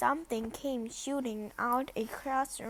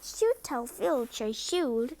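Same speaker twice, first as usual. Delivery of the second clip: stately voice. Acted. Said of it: "said Peeves in stately voice".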